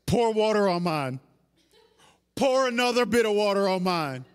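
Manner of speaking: swaggering, deliberate order; cocky command. Acted. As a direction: order it as if victory is certain. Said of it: "Elijah gets so cocky".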